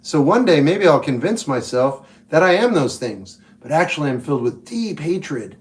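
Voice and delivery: lightly put-on overly concerned Portlander; mock Portlander. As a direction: play a falsely caring local, sweetness over hidden contempt. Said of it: "my impression of someone from Portland".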